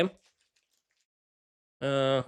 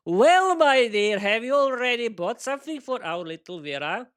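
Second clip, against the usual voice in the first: husband's greeting; 5 semitones higher than usual. Acted. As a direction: coax her like a sly husband. Husband greets wife, character voice.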